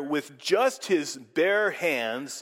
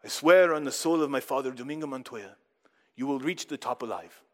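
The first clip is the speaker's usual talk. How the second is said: solemn oath; 3 semitones lower than usual. Retold or imitated. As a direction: swear it gravely on your father. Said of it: "he says very solemnly".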